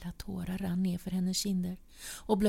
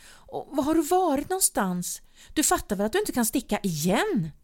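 higher, louder accusing questions; angry demanding; 8 semitones higher, 5 dB louder than usual. A narrator's reading. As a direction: pin him down with each question. Wife confronts leaving partner.

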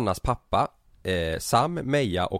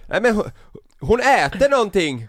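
alarmed call; 12 semitones higher, 6 dB louder than usual. Retold or imitated. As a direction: call out in mock alarm to someone at a distance. Då ropar Sanna till mig. (härmat ljust, oroligt rop)

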